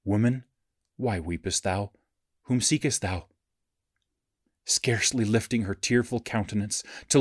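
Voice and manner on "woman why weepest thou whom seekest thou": sympathizing inquiry. A narrator's reading. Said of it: "his sympathizing inquiry".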